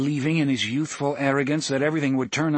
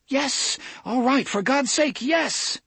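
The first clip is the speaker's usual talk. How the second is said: much higher, breaking as if about to cry; near tears; slower than usual. A narrator's reading. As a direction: plead on the edge of tears. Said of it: "sounded as if he were crying himself".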